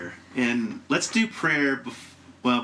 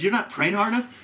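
higher, disbelieving repeat; incredulous echo; 8 semitones higher than usual. Retold or imitated. Repeating the hurtful advice to friends, incredulous. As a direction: throw the phrase back in disbelief. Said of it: "It is".

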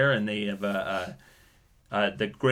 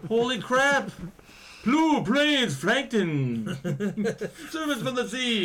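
excited squeal; 12 semitones higher, slower than usual. Real, not acted. Excited outburst about Logan's Run.

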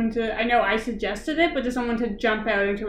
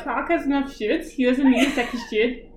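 imitated New Zealand accent; amused retelling in a New Zealand accent; New Zealand vowels, SHED as "shid". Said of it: "That was exactly what she said".

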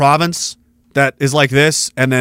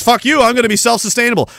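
defiant quote; 6 semitones higher, faster than usual. Retold or imitated. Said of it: "They're gonna do all this".

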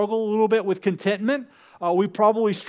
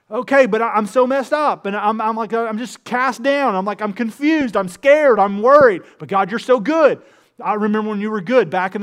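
troubled believer crying out to God; distressed outburst; 5 dB louder than usual. Acted. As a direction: spill out fear to God, then cling to hope. Voicing the psalmist's distress.

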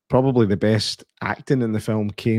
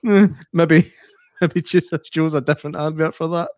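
laughing remark; 5 semitones higher than usual. Retold or imitated. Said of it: "I was like".

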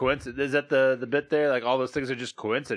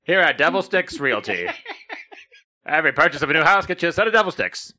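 commercial announcer; 3 semitones higher, 4 dB louder than usual. Pretend. Mock realty ad.

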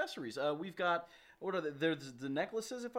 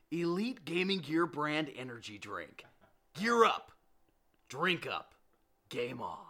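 mock ad slogan; 3 semitones lower than usual. Host reviving an old catchphrase for fans, mock ad read. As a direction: punch out a spoof energy drink tagline.

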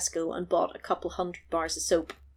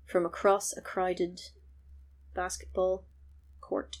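whisper; 7 dB quieter than usual. Acted. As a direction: whisper it like a movie trailer. Dramatic reveal of the lady.

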